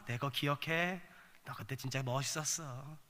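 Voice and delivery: low, soft fond praise; tender reminiscence. Acted. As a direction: speak quietly as God remembering with affection. Voices God fondly praising preacher.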